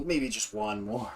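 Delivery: mock-guilty soft plea; sheepish murmur. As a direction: quietly give in, slowly. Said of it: "and go".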